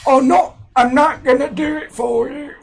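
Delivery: a terrible Cockney Michael Caine; bad Michael Caine. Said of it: "he talks like this".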